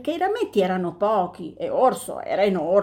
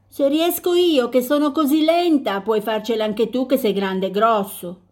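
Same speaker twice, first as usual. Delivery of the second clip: lightly voiced tortoise, higher and cheerful; 3 semitones higher, 3 dB louder than usual. Tortoise voice in the story.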